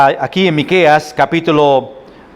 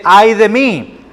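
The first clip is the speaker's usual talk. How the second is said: raised-pitch cry of woe; lament; 4 semitones higher, slower than usual. Acted. Preacher showing what Micah says, lamenting. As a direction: quote the prophet lamenting, higher. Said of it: "está en lamento o lamenta de algo".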